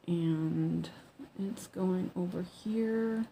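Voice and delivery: speaking through a yawn. Real, not acted. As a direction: yawn while saying it. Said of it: "Oh, and then I'm yawning".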